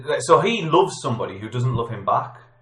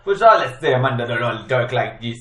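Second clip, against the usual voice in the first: put-on louder, loosely Jamaican-sounding accent; accidental Jamaican accent; 4 dB louder than usual. Film quiz host putting on an accent that lands as Jamaican. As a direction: attempt an accent that strays into Jamaican. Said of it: "What, Jamaican?".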